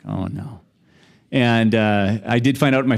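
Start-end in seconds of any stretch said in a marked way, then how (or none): 0.1-0.6 dismayed. Retold or imitated. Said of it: "I'm like".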